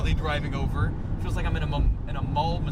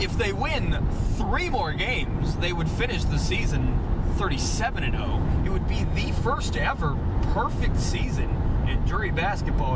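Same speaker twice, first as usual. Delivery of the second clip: reporter voice. Shown as a demonstration. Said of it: "you dropped into the".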